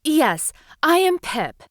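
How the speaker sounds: tiny, high and timid little seahorse; little seahorse calling into the cave. Acted. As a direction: squeak it out like a small sea creature. Seahorse introduces herself to witch.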